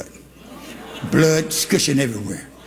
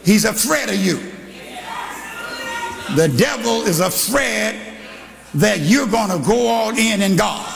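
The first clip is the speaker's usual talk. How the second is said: full-force preaching; 3 semitones higher than usual. Acted. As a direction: drive it home to the pews. Preaching to the congregation.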